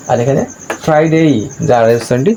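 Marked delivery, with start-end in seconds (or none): 0.8-1.2 higher-pitched ফ্রাইডে with clear R; sounded R. Shown as a demonstration. Teacher contrasting with Saturday, sounded R. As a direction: model ফ্রাইডে with the R said. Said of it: "হচ্ছে".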